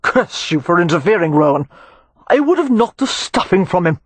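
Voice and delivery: growled curse rising in pitch; indignant brawler's growl; angry growl. A narrator's reading. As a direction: growl at the man who interfered. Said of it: "he growled".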